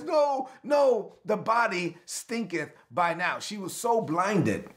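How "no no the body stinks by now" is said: shouted high no, then slow; protesting Martha. Retold or imitated. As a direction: cry no, then drag the rest out slowly. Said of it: "she interjects".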